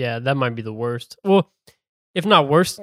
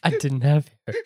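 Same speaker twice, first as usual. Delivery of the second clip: mocking repeat, laughing.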